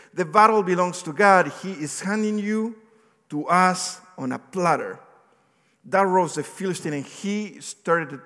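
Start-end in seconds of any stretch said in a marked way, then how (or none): 0.1-1.5 proclaiming loudly. Acted. Climax of David's speech. 1.5-5.0 David defiant. Acted. David's defiant speech to Goliath.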